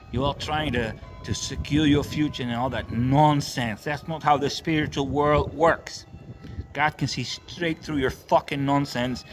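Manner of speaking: fiery street-preacher rant; raging sermon at the churchgoers; preaching. Real, not acted. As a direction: preach it hard at the crowd. Preaches throughout.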